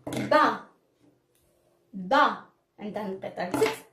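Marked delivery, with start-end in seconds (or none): 0.1-2.4 با as "ba", opened on the "a"; fatha syllable. Shown as a demonstration. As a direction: model با as one clear syllable "ba". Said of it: "ونشوفو كيفاش غادا تنطق".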